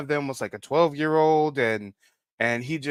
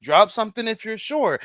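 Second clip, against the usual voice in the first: building teaser, loud on bad; retelling his own warning; mock warning hype; 5 dB louder than usual. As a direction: hype the crowd before the drop. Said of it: "I said".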